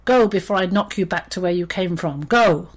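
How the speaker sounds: angry lion dismissal, loud final word; roaring threat. Acted. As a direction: drive the mouse off, ending on a bellow. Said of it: "the sound of the lion's roars".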